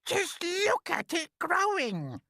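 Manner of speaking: high, loud, slow exclamation; cried. A narrator's reading. Aunt crying out at the growing peach, high and loud. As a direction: cry it out high and drawn out. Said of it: "Aunt Spiker cried".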